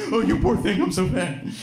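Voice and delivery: put-on high, sing-song baby talk to a sprayed cat; cooing to a cat. Comedian voicing herself apologizing to her friend's cat, cooing. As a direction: coo it like apologizing to a pet. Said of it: "It's like".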